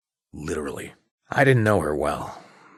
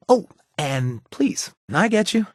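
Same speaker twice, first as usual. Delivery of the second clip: bright burst; 12 semitones higher, 3 dB louder than usual. Acted. Sudden bright reply.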